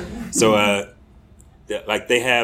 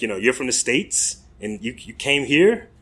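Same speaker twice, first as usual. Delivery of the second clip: put-on a light, slowing British accent; a hint of a British accent for the old man's question; lightly imitated British accent, puzzled; British accent attempt; 3 semitones higher than usual. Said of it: "my attempts to do the accent".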